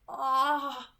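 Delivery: a short pained groan. A narrator's reading. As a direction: let out a strained groan. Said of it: "she groaned qu-, quietly".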